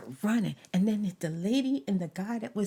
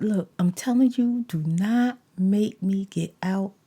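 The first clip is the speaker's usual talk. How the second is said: warning him to get away from her car; 5 dB louder than usual. Retold or imitated. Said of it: "I said".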